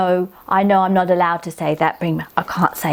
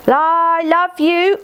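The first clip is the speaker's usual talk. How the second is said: slow, higher, drawn out; slow loving dictation; 9 semitones higher, much slower than usual. Pretend. Child dictating love to her aunt, slow and fond. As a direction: write it slowly with love.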